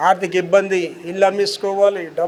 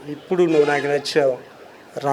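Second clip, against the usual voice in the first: voice of God; 5 semitones lower, 4 dB quieter than usual. Retold or imitated. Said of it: "దేవుడు తను చేయి చాపి".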